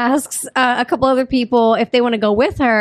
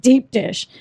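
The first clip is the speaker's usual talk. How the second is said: Chicago accent. Shown as a demonstration. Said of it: "I'll leave your Chicago accent in there too".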